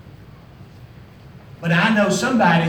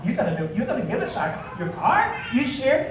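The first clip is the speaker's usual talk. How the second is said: laughing disbelief; 4 semitones higher, 3 dB quieter than usual. Retold or imitated. Retold amazed reply, laughing.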